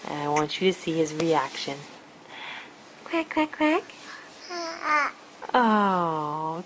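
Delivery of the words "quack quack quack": high quacking duck. Pretend. Toy duck voice for baby.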